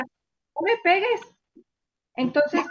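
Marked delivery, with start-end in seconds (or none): 0.0-1.2 higher, slower pleading donkey; donkey complaining. Acted. Donkey begs Bilam not to hit her, higher plea. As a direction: beg him to stop. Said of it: "le reclamó la burra".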